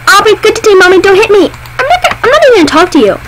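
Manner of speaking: put-on small child begging not to be hit; pleading kid voice. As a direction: beg mommy like a scared little kid.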